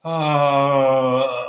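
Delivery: a tight, squeezed "Ah" from a closed throat; constricted throat. Shown as a demonstration. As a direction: show the wrong choked ending of a note. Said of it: "Please don't do that".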